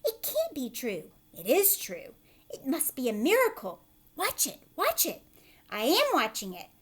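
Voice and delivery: high, loud disbelieving cries; astonished aunts. Acted. The aunts watching the peach grow. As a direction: sputter in amazement.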